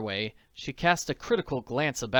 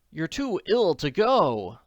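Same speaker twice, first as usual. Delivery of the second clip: higher, louder, slow anxious cry; worried cry; 6 semitones higher, 5 dB louder, slower than usual. A narrator's reading. Nancy stops the collapsing man, anxious and high. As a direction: cry out in worry for him. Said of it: "she cried".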